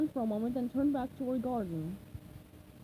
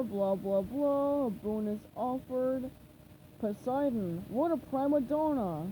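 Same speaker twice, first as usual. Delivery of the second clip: villain skimming a decree with contempt; Plankton reading scornfully; slower than usual. Acted. Plankton reading the king's decree, scoffing. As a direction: read it dismissively, bored by the pomp.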